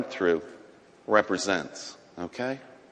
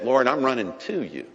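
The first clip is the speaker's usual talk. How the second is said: fervent cry; 7 semitones higher, 5 dB louder than usual. Acted. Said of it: "And I said".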